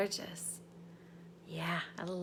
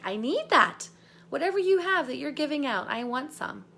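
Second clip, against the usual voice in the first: louder, quick eager plea; eager client; 4 semitones higher, 5 dB louder than usual. Retold or imitated. Coach voicing an eager client messaging, excited. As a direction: gush like a customer who must buy. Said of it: "being like".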